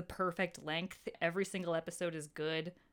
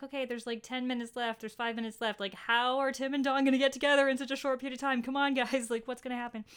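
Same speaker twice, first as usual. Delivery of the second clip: excited inner voice; 4 semitones higher, 4 dB louder than usual. Retold or imitated. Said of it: "and I'm like".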